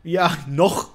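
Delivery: "noch" set apart and weighted; stress on NOCH. Real, not acted. Player on a companion still living, pointed stress on "noch". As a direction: lean meaningfully on "noch". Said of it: "Betonung auf noch".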